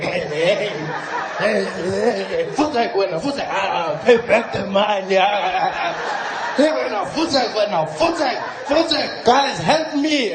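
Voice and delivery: flustered owner fending off his dog; Jacob Zuma. Acted. Zuma being bitten by his grown puppy, mock-panicked calls for help. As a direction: stammer out shooing cries, rising to a plea. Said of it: "he's like".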